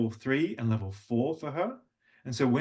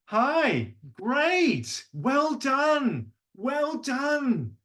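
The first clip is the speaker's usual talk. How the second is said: much higher, bright praise; level two praise; 13 semitones higher, much slower than usual. Shown as a demonstration. Father praising his sons, much higher. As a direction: lift way up to cheer them on. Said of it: "I go up to level two".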